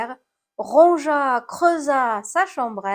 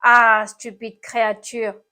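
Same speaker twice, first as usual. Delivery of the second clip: groaning complaint; 6 dB louder than usual. A narrator's reading. Snail scolds the apple that hit it, groaning. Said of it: "gémit l'animal cornu".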